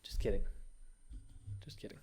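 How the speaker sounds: soft, sheepish backpedal; sheepish take-back. Real, not acted. After joking at TikTok, he softly takes it back. Retracting the joke.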